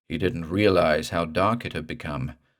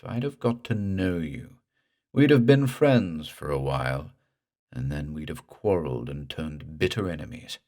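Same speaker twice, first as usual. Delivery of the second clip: slow creepy speech. Acted. Ghost tells Morse he should have drowned, slow and creepy. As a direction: drawl it slow and eerie. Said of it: "The slow, creepy speech died away".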